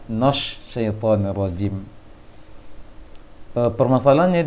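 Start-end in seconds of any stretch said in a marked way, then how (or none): 0.1-1.8 "nosh syaitonir rajim" with the na rounded to "no"; bacaan salah ditiru. Retold or imitated. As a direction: slowly show the faulty rounded vowel in "nosh". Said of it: "nunnya terbaca". (meniru "nosh syaitonir rajim", fathah nun dibulatkan jadi "no")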